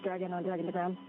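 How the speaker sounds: crackly orbital radio call; space-to-ground link dropping out; breaking up space radio. Real, not acted. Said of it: "Dragon to ground being in and out".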